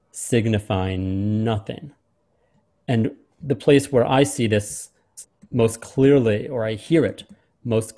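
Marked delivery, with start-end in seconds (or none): 0.1-1.9 slow, stretched-out recitation; drawn out. Shown as a demonstration. Teacher stretching out signifying nothing for students. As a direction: draw out every sound of signifying. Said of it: "the long sounds of tomorrow".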